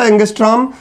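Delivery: "एंगस्ट्रॉम" ending in an m; correct pronunciation. Shown as a demonstration. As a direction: say "एंगस्ट्रॉम" with a final m. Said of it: "म आएगा".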